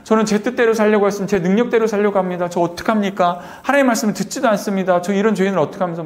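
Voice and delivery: re-enacted desperate plea to God; anguished prayer. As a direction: beg God in retold torment. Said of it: "너무 괴로워서 바닥을 떼굴떼굴".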